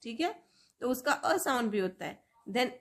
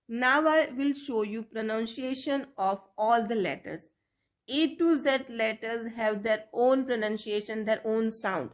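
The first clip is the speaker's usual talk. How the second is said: slow teacher English; much slower than usual. Shown as a demonstration.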